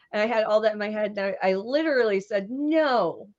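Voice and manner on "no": retold shocked refusal, pitch leaping up; appalled. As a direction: react in high-pitched mock horror. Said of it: "And I was appalled".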